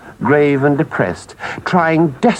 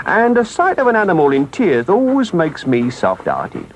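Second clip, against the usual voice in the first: lightly voiced engine driver, reassuring; kindly engine driver; 3 semitones higher than usual. Engine driver promising not to desert Toad, reassuring. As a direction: soften the verdict and rally him at the end.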